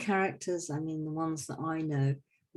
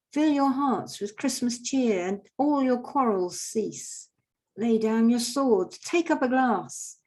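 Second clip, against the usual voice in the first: high, slow, loud appeal for peace; Father Christmas calling for peace; 5 semitones higher, 4 dB louder than usual. Retold or imitated. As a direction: call them to the toast, slowly and grandly. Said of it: "he's calling for peace".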